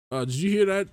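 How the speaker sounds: startled fearful question. Acted. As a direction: ask it in a sudden fright. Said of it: "How many times am I gonna have to say that today?".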